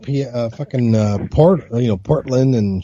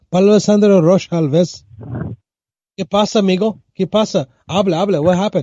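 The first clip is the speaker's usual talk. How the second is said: put-on joking Latino accent; 5 semitones higher, faster than usual. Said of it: "in a Latino accent".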